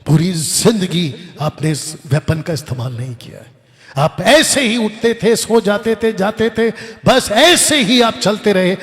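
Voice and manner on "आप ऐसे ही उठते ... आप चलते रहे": slow, louder, half-laughing tease; mocking, laughing. Real, not acted. Preacher teases the idle crowd with a laugh. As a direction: poke fun at their idle routine.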